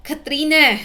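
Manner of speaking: loud, high cry of a name; mother screaming out for her child; frantic worried call. A narrator's reading. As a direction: shout it, beside yourself with worry. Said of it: "halos mabaliw sa pag-aalala".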